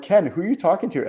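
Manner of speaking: mock puzzled question to himself. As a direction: catch yourself mid-thought. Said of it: "sometimes I'll say that to myself".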